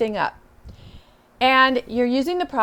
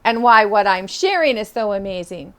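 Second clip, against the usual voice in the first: confident; 5 dB louder than usual. Shown as a demonstration. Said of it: "going back and saying".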